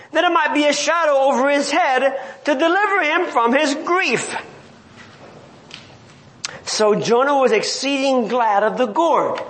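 measured, solemn Bible reading; scripture reading. Acted. Preacher reading Jonah to the congregation, measured and solemn. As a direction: read the King James text steadily to the flock.

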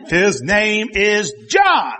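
slow, weighty declaration; mock slow proclamation; mild mock proclamation. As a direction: spell out the name slowly and firmly. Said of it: "he's going".

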